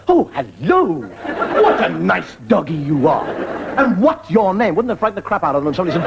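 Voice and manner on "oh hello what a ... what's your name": doting dog talk. Retold or imitated. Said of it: "they'll go".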